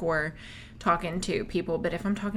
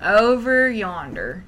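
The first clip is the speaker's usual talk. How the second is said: loud, drawn-out Southern twang; playful Southern drawl; 8 dB louder, slower than usual. Pretend. Joking with co-host about country accents, hammed-up Southern drawl. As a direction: stretch it out in a big Southern drawl.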